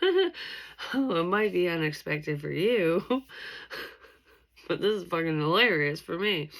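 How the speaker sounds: mock-gleeful, laughing at their bad luck; giggling schadenfreude; gloating laugh. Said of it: "kind of thing".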